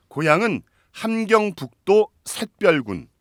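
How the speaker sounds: 함경북도 샛별군 read slowly, stressing 함경북도; slow, grand announcement of 함경북도 샛별군; slow announcer read. Shown as a demonstration. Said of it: "이 동네 이름은 굉장히 이쁜데요".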